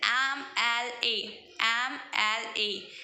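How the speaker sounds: एम एल ए slowly, each letter name separate; letter-by-letter demo. Shown as a demonstration. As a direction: spell out एम एल ए slowly, starting on an 'em' vowel sound. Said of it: "एम एल ए कैसे बोलते हैं". (एम एल ए, एक-एक अक्षर धीरे-धीरे)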